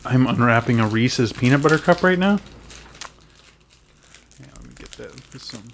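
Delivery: eating while talking; mouth full. Real, not acted. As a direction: talk through a mouthful of candy. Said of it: "Oh, no, that's awful".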